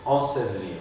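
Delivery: ensevelir as "en-se-vlir", second E dropped; in ensevelir sound the first E, swallow the second; first mute E kept. Shown as a demonstration. Teacher models ensevelir for a student, "en-se-vlir". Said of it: "c'est la première qu'on articule".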